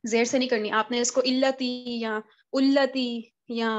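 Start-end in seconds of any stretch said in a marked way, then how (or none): 1.2-3.1 इल्लती या उल्लती, wrongly opened with "i" and "u"; wrong starts इल्लती and उल्लती, shown as mistakes; wrong reading. Shown as a demonstration. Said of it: "ऐसे नहीं पढ़ना".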